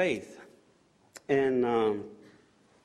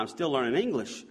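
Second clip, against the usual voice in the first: laughing joke. Real, not acted.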